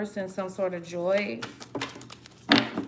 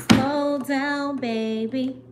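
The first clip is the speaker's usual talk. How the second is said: playful self-talk; 5 semitones higher, 6 dB louder, much slower than usual. Real, not acted. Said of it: "I'm moving too fast".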